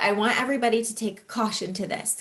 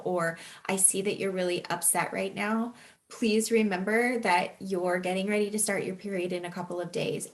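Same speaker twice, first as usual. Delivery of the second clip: gentle reassurance; 3 dB quieter than usual. Pretend. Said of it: "there are ways and there are moments that they can come in and say".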